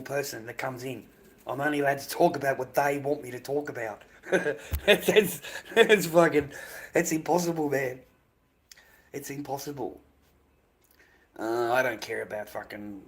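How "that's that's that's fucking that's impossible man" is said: loud, higher exasperated burst; exasperated outburst. Real, not acted. Streamer fed up with chat's demands, loud exasperated outburst. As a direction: throw up your hands in disbelief. Exasperated rant about chat.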